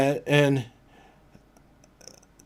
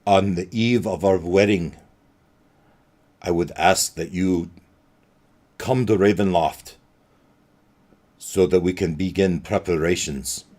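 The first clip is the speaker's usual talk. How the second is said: Strahd; 2 semitones lower than usual. Acted. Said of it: "and he continues".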